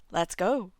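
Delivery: ordinary delivery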